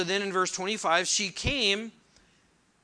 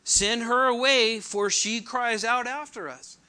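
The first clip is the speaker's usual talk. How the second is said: slow, louder insistent plea; urging; 4 semitones higher, 5 dB louder than usual. Acted. Disciples urge Jesus to send the woman away, insistent. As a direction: press the point firmly, drawing it out. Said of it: "his disciples came and urged him".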